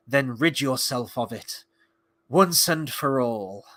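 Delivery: slow, lightly acted solemn line; Arondir quote. Quoting an elf about the sword, lightly acted and slow. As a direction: quote it gravely with drawn-out words. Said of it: "He says".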